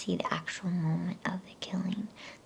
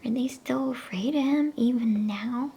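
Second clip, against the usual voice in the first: higher, louder whispered sob rising to a question; tearful disbelief; 8 semitones higher, 7 dB louder than usual. A narrator's reading. Susan sobbing to Lucy at the stone table, higher and louder. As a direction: push the hurt up into the question. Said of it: "sobbed Susan".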